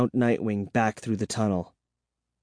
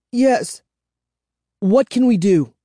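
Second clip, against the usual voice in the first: frightened; 10 semitones higher, 4 dB louder than usual. A narrator's reading. Frightened children plead.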